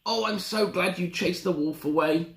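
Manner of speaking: a hint of a thankful little girl; relieved Little Red. Little Red thanking Granny, lightly voiced relief.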